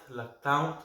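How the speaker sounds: "Loctin" ending like "town", rising; unsure pronunciation. Real, not acted. Beer reviewer trying another version of the name, unsure pronunciation. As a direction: try "Loctin" as lock-TOWN, questioning. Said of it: "Might be saying that wrong".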